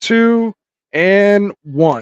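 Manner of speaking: real countdown for joining together. Real, not acted. Counting down to joint draft entry.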